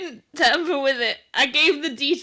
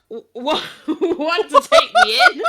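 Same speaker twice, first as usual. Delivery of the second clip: a loose Texas twang, laughing; Texas accent; 7 semitones higher, 7 dB louder than usual. Shown as a demonstration. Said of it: "I went Texas for a second".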